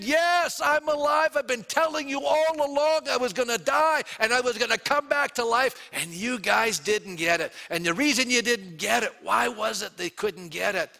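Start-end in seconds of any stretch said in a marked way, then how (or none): 0.0-7.5 much higher, louder exultant reply; joyful Jesus. Retold or imitated. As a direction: proclaim it, thrilled they finally see. Jesus voiced answering disciples.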